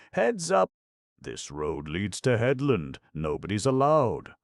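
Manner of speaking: high, loud warning call; shouted warning. Acted. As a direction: bark it out like a sign's alarm. Reading out a warning sign.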